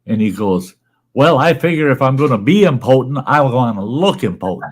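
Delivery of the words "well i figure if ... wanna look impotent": a touch higher and louder husband voice; punchline husband. Acted. Husband explaining his suit to his wife, mildly voiced and proud. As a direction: deliver it proud and pleased.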